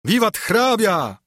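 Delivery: high, drawn-out vivat; narrated crowd cry, pitched high; crowd's shout. A narrator's reading. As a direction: hail someone with a sustained cheer. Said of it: "straszliwy powstał krzyk za domem".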